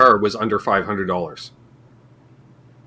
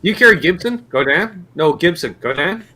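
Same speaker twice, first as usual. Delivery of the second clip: clerk skit; 6 semitones higher than usual. Acted.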